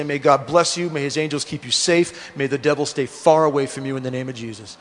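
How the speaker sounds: low, softened fatherly prayer; heartfelt blessing. Retold or imitated. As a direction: bless your child quietly and sincerely. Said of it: "I make up the prayer, I speak from the heart".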